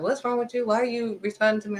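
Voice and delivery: challenging question. Acted. People asking why she responds that way, mildly affronted. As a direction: question them as if taken aback.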